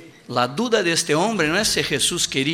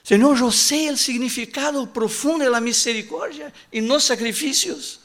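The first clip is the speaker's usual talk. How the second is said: raised pleading cry to the Lord; impassioned prayer; 9 semitones higher than usual. Acted. Preacher recalling his plea to the Lord, raised and fervent. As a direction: lift the voice in earnest prayer.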